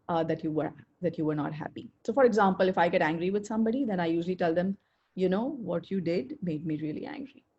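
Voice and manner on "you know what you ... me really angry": calm, even, a little softer; calm firm statement of anger; calm and polite. Shown as a demonstration. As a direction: say it gently and firmly, not attacking. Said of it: "that is the tone in which I say it".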